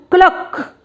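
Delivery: high-pitched clucking hen imitation. Shown as a demonstration. Teacher showing pupils a hen's sound, high clucking imitation.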